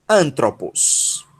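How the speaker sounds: Antropos said slowly with stress on "An"; deliberate, falling Antropos; whole-word demo. Shown as a demonstration. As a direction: model Antropos slowly for learners. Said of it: "é a pronúncia dessa palavra".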